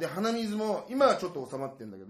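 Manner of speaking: stuffy nose from hay fever; nasal voice. Real, not acted. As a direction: talk through a blocked nose. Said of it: "でも鼻声じゃない、これ".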